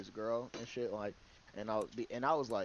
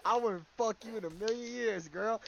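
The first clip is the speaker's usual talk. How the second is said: mocking voice; 10 semitones higher, 4 dB louder than usual. Mocking rejection line, high far.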